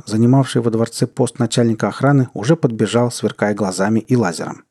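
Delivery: usual speaking voice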